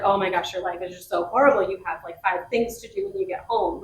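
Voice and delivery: understated mock sympathy; sarcastic. Mom teasing her child about chores, mildly sarcastic. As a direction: tease lightly with feigned pity. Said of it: "to just be sarcastic".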